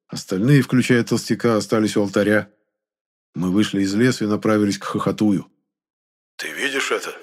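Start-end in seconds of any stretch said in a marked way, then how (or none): 6.4-7.2 softer, breathed out in shock; stunned breath. A narrator's reading. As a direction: barely get it out, stunned. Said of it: "ошеломлённо выдохнул Енох".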